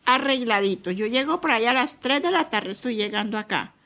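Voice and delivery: put-on a touch of the teasing older brother promising a treat; mother imitating her son teasing his little siblings, mildly playful; cheerful big brother. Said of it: "le decía".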